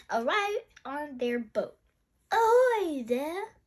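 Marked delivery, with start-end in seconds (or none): 2.3-3.6 high, drawn-out hail; slow, loud seafaring call. Acted. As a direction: hail them loudly from a boat. Grandpa calls from his boat.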